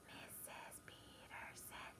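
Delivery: slow whisper, syllable by syllable. Shown as a demonstration. Teacher leading the class in whispering her name, slow whisper. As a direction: whisper it very softly and drawn out. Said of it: "Let's whisper it".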